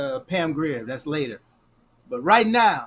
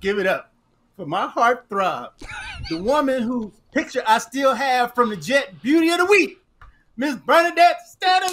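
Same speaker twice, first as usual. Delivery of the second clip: big announcer intro; 3 dB louder than usual. Shown as a demonstration. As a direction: announce her like a host. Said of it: "Do it right".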